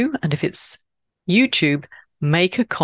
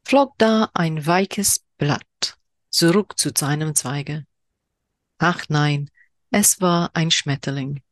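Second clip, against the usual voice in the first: slower repeat of the German haiku, lingering; second German reading. Shown as a demonstration. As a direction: read it again, letting each line hang. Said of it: "apologies for my horrendous German accent".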